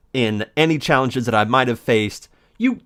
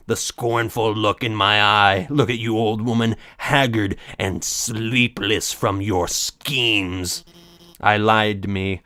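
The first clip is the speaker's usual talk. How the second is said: dramatic villain read; 2 semitones lower, slower than usual. Acted. Reading dramatic lines.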